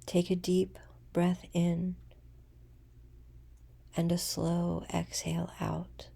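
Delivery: unhurried meditation voice with long pauses; guided meditation. Acted.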